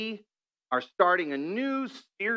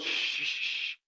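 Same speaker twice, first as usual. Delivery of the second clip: whispered, urgent shush; 8 dB quieter, slower than usual. Retold or imitated. Husband hushing his wife in the car, whispered. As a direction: hush her with a sudden whisper. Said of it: "he goes".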